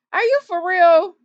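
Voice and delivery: amused, incredulous repeat; laughing disbelief. Real, not acted. Repeats the question, now laughing.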